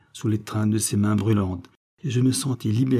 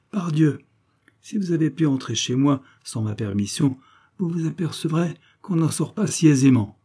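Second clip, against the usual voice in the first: raised, higher accusing voice; furious accusation; 3 semitones higher than usual. Acted. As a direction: hurl the suspicion at him, losing control. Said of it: "il ne se commandait plus".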